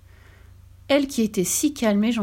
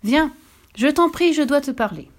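higher, louder plea across the waves; pleading call; 7 semitones higher, 4 dB louder than usual. A narrator's reading. Old man begs the fish to come, pleading call. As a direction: call out urgently, begging. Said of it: "appela-t-il en direction des vagues".

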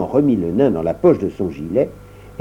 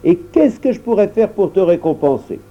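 dwarf; 7 semitones higher than usual. Acted. Dwarf thanks.

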